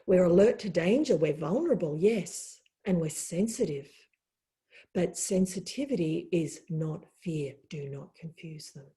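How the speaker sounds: calm, patient deer gently correcting the giant. Acted. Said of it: "the deer looked at him calmly and said".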